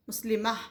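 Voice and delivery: "मुस्लिमा" said with the final taa marbuta dropped at the stop; pausal pronunciation. Shown as a demonstration. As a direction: stop on "मुस्लिमा", ending in a plain long a. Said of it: "तामरबूत अगर हम रुकाएंगे तो मुस्लिमा". ("मुस्लिमा" को रुककर, आख़िर में सिर्फ़ 'आ' के साथ)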